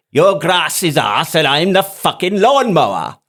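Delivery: put-on rough Welsh sergeant accent. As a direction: bark it like a Welsh drill sergeant. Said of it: "forgive me for the Welsh accent".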